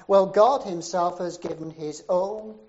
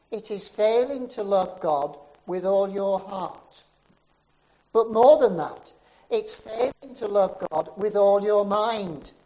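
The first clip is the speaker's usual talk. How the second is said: building preacher's cry; 6 dB louder than usual. Retold or imitated. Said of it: "And then he says".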